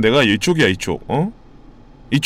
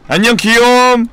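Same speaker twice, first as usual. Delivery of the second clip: higher, louder cutesy farewell; playful goodbye; 9 semitones higher, 5 dB louder than usual. Pretend. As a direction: coo a goodbye. (높게 귀엽게 작별)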